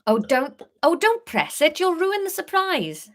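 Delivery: high whiny Welsh plea; whining Welsh Harry. Acted. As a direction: whine it at her in Welsh. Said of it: "Harry whined".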